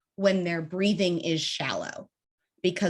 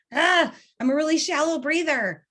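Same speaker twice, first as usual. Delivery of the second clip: fretful self-talk; 9 semitones higher, 4 dB louder than usual. Retold or imitated. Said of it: "if you're sitting here going".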